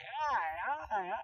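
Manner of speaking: soft, repeated little hellos; anxious soothing. Retold or imitated. Speaker trying to settle terrified baby, soft soothing. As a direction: coo softly to make it better. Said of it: "I try to make it better".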